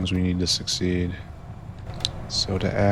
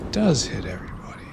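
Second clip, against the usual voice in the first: quieter, fast whisper; soft whisper; 5 dB quieter, much faster than usual. Real, not acted. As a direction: say it again under your breath, fast. Repeating it to himself.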